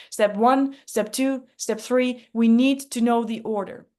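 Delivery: lightly voiced rule-loving checklist man; Consistent Chris voice. Shown as a demonstration. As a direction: lay it out step by step like a stickler for rules. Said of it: "Consistent Chris talks a little bit like this".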